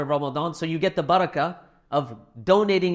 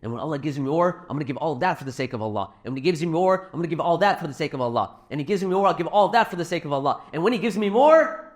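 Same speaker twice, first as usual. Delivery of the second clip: put-on eager child's chant speeding up and climbing; a light imitation of an excited son getting carried away; rising excitement; 2 semitones higher, faster than usual. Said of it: "And he keeps saying it".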